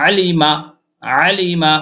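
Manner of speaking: আলিমা read quickly, run together. Shown as a demonstration. Teacher showing students the fast reading, quick. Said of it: "তাড়াতাড়ি যদি পড়ি আমরা".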